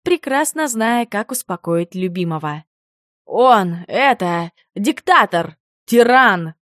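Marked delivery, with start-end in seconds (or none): 3.3-6.5 louder and louder indignant complaint; rising to a loud, indignant rant; enraged werewolf ranting to his wife about the cat; angry outburst. Acted. Furious husband complains about cat.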